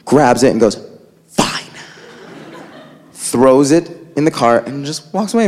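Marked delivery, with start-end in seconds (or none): 1.3-1.6 curt fine. Retold or imitated. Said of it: "My mom goes".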